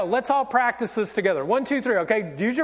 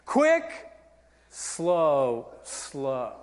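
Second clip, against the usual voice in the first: dance count; 8 semitones lower, 3 dB quieter, much slower than usual. Shown as a demonstration. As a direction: count dance steps, drawing out "slow". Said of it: "And it's like this".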